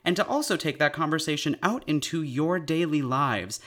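upbeat podcast announcer read. Acted. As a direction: read it like a sponsor spot. Reads an ad break message.

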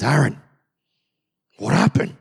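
Moses rounding on his brother, rising; exasperated demand. Acted. Moses confronting his brother Aaron.

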